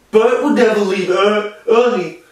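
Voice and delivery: lightly acted upset protest, pitched a little up; upset movie character. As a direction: quote a favorite line with mild mock upset. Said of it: "when he's upset about Usnavi leaving".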